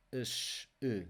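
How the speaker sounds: endings "us, e" each said alone with a closed E; closed vowel. Shown as a demonstration. Teacher showing second-group endings, closed vowel in "us, e". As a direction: isolate "us" and "e", vowel kept closed. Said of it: "This is a closed vowel sound".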